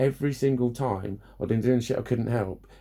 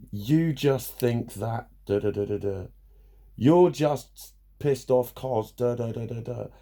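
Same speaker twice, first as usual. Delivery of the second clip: slow mocking quote; slower than usual. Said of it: "mocking what people say".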